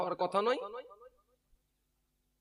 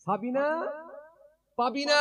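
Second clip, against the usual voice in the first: calling out; 10 semitones higher than usual. Acted. Father calls daughters at night.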